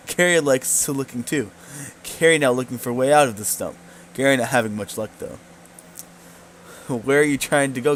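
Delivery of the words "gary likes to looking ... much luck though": broken-speech goblin. Acted. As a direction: talk like a simple goblin.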